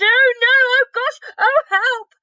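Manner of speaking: put-on very high, loud disgusted girl; little girl choking on foul food; Sophie disgusted.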